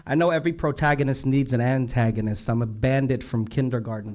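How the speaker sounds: loud declaimed verse; punchy poetry reading; poem recital. Real, not acted. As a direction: project the lines like a slam poet. Reads out a poet's lines.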